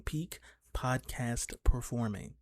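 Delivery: stretched vocal warm-up delivery. Pretend. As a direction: draw each word out slowly. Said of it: "vocal warm-up things".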